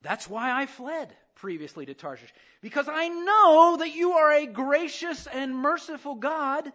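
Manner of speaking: loud, high, bitter plea to God; angry prayer. Retold or imitated. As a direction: throw the prayer at God in anger. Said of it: "still angry when he's praying".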